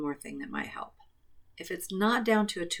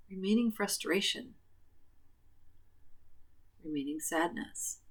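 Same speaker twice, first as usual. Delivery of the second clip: tapping reminder phrases; 3 dB quieter than usual. Acted.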